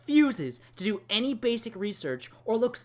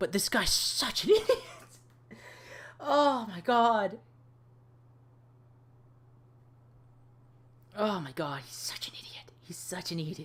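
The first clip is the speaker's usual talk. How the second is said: heated, angry, worked-up voice. Coming back to the audience after apologizing, heated and angry. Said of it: "Apologize for being so heated".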